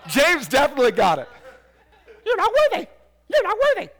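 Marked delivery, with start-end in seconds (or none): 2.2-3.9 high, loud squawking parrot, laughing. Retold or imitated. Preacher squawking like a parrot at the congregation. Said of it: "think of this one as the parrot".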